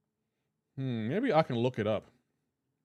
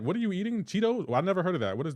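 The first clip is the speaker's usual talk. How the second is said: mock confusion; 6 semitones higher, faster than usual. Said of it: "I'll be like".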